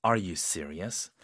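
low, slow doubtful question; disbelieving. Shown as a demonstration. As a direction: sound like you can't believe it. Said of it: "믿기 어려운 상황에서는 이런 톤으로".

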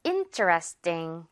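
slow, low interesting with a tense 띵 at the end; interesting, front-stressed, T tightened into 띵. Shown as a demonstration. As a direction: finish interesting on an unaspirated 띵. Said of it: "띵이 되는 거죠".

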